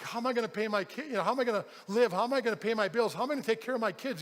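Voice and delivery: fast, rattled-off mock worrying; freaking out. Worker fretting on the walk to the foreman, rushed. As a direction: imitate anxious questions tumbling out. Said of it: "like, freaking out".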